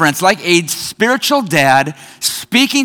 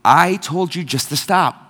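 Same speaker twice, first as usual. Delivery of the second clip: eerily calm; 3 semitones lower than usual. Retold or imitated. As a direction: imitate someone unnervingly calm while in a fight. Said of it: "saying in the most calm voice".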